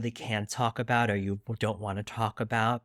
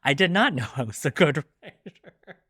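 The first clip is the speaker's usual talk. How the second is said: retold reply, laughing mid-line; laughing disbelief; 6 semitones higher, 6 dB louder than usual. Answering praise of her writing, amused and laughing. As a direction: act amazed and laugh it off. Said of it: "And I'm like".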